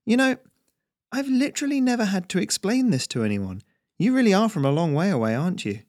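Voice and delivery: high-pitched, wondering farmer voice; exasperated farm boy. Acted. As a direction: marvel at how clueless the stranger is. Voices Harry, sighing at stranger.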